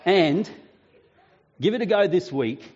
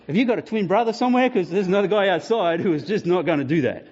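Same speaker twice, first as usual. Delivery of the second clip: incredulous joke. Retold or imitated. Pastor teasing the suddenly sorry big man, mock amazed. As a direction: rattle it off in mock disbelief.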